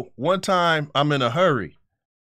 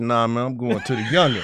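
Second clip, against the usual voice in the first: laughing refusal; 3 semitones lower than usual. Retold or imitated.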